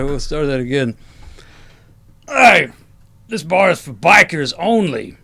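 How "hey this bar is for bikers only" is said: lightly voiced gruff biker, loud opening "Hey". Biker telling newcomers who the bar is for, mildly gruff. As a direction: call out like a biker guarding the bar. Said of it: "All bikers sound like that".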